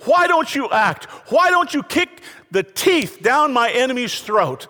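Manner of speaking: voicing an angry psalm. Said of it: "Sixty-five of a hundred and fifty".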